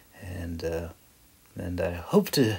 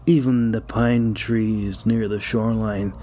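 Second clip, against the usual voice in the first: measured audiobook reading, lingering on descriptions; story narration; 3 dB louder, slower than usual. Acted. Author reading his fantasy chapter aloud to listeners, steady storytelling narration. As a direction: read it like an audiobook narrator setting the scene.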